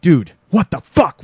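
loud, high real exclamation; excited disbelief; amazed. Real, not acted. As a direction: blown away by the finale. Reacting to the episode ending.

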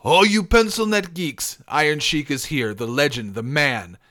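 bellowed wrestler's boast; Iron Sheik. Acted. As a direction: belt out a bragging wrestling taunt. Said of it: "do my best Sheik".

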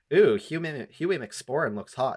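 put-on swooning young women. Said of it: "young women who are like".

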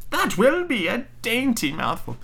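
high, slow witch relish. Acted. Witch relishing the sleeping children, high character voice. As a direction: savour it in a high, drawn-out witch voice.

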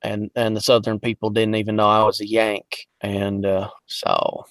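lapse lightly into a Southern accent. Shown as a demonstration. Voice actor showing the accent he falls into when tired, Southern accent. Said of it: "fall down into my Southern accent".

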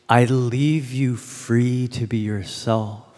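slow, soft and quiet, letting go; gentle release. Shown as a demonstration. Speaker demonstrating the words to the congregation, slow and soft. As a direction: say it slowly like a gift of freedom. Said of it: "Test it by saying those words again".

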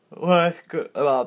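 surprised. Real, not acted. Surprised reading article.

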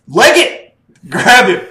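high, loud hammed-up yelling of commands; mock shouted orders. Villain yelling getaway orders at his henchmen, mock shout. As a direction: bark the getaway plan like a cartoon villain. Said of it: "the whole plan was just".

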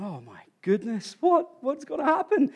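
high-pitched, panicky retelling; retold panic. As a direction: act out a climber's rising alarm. Panicked climber acting out thoughts.

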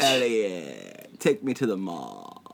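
put-on E.T. as a valley girl, drawn out; spoiled valley girl alien begging. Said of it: "E T talks like a valley girl".

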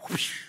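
quick airy whoosh of lightning; imitated whoosh. Shown as a demonstration. Preacher showing lightning crossing a dark sky, imitated whoosh. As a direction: make a rushing whoosh noise.

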